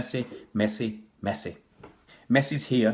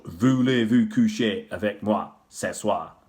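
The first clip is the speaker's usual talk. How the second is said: slow French phrase in a northern English accent; heavy northern English accent; 4 dB louder, slower than usual. Shown as a demonstration. Showing viewers a French phrase he's heard, in a heavy northern English accent. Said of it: "heavy northern accent if I can".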